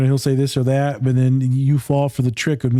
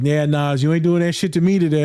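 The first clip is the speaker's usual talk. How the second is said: mock refusal; 3 semitones higher than usual. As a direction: playfully push back as the client. Retold client refusing to take part.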